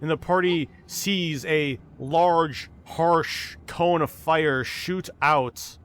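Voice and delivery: slow, measured scene setting; game master narration. A narrator's reading. Game master describing a dragon's fire to players, slow narration. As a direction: draw out the description, pausing between phrases.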